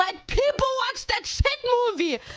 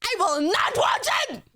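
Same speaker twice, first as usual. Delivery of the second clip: defiant shout. Real, not acted. Defiant refusal.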